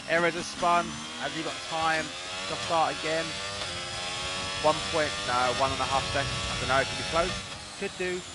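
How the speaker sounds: animated sim-racing play-by-play; live race commentary. Real, not acted. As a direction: call the action as it unfolds. Calls live race action.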